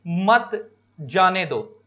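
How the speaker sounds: slow, spaced-out example sentence; example line. Shown as a demonstration. Teacher reading an example line to students, slow and deliberate. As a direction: read it out word by word. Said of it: "जैसे example देखो".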